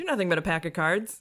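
ordinary talk

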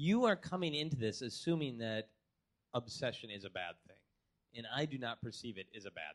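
gentle, soft, very low and very quiet. Addressing the other speaker's assumption directly, in a soft, gentle voice. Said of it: "I'm gonna use my soft, gentle voice".

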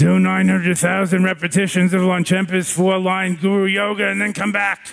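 put-on gruff old teacher voice. Retelling how an old teacher answered a request for advice: imitating a gruff old lama.

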